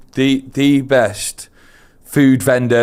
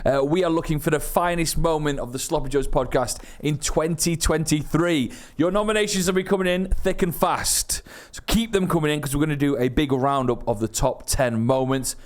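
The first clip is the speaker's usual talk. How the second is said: lively higher-pitched promo read; podcast announcement; 4 semitones higher, 4 dB quieter than usual. Acted. Host calls on listeners to send nominations, upbeat announcement.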